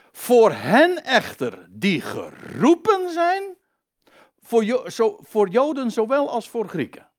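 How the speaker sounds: high, deliberate scripture proclamation; emphatic preaching. Acted. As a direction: declaim the verse, drawing out key words. Preacher declaims the verse. (nadrukkelijk voorgedragen bijbelvers, met hoge stem)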